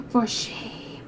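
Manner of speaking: hushed, mock disapproving; hammed-up tut-tut; mock scolding whisper. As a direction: whisper a prim rebuke. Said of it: "He's like".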